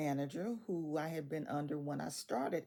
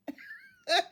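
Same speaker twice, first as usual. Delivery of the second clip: a much higher, louder real laugh burst; high burst of laughter; 8 dB louder than usual. Real, not acted. Telling listeners about driving the wrong way, a high real laugh. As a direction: laugh out loud at your own mix-up.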